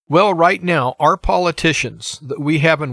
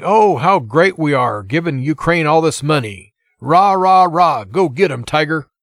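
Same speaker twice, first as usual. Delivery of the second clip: mocking gleeful senators. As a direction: mimic a smug senator cheering them on. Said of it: "you have the gleeful senators".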